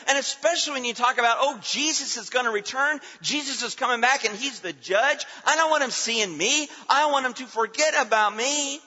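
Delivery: insistent, driving pulpit delivery; impassioned preaching. Real, not acted. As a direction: preach it hard, voicing the reluctant sinner. Preaches, voicing the reluctant sinner.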